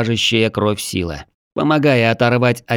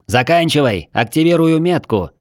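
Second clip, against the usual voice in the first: snide; 5 semitones higher than usual. Acted. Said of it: "ехидно бросил опалённый".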